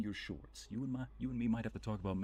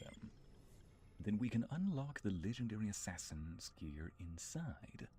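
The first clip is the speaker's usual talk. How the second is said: narrator voice. Acted. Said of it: "in my narrator voice".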